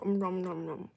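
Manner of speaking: cartoonish nom nom munching; playful munching noises; nom nom eating sound. Shown as a demonstration. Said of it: "shovel the food in my mouth and go".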